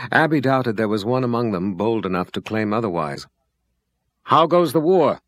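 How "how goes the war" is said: calling out. A narrator's reading. Man calls question from crowd.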